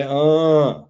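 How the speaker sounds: loud imitated rap grunt; Master P grunt. Co-host quoting the rapper's hook to friends, imitated grunt. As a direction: punch out a drawn-out "uh". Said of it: "Make him say".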